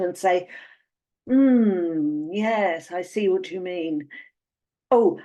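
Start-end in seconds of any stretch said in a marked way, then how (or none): 1.3-4.1 long pondering hum, then a measured agreement; feigned concentration. Acted. Dater pretending to follow her date, earnest concentration. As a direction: act as if deep in thought. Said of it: "a deep frown of concentration".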